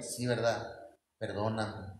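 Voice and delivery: bajito y grave, como arrepentido; disculpa sumisa. Acted. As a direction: pide perdón con voz apagada. Husband meekly apologizing. (disculpa mansa, en voz baja)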